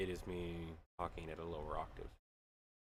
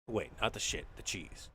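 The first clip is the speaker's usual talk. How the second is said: ordinary talk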